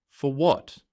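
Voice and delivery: a frantic disbelieving shriek; hysterical. Acted. Sarah learns she is suspended, hysterical and high. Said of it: "My voice was hysterical".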